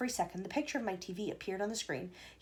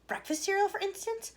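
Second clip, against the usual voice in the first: eager shout; 10 semitones higher than usual. A narrator's reading. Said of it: "he shouted".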